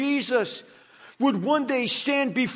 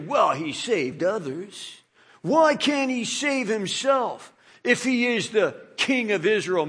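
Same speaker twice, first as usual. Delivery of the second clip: sneering mockery. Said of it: "they sneered at him".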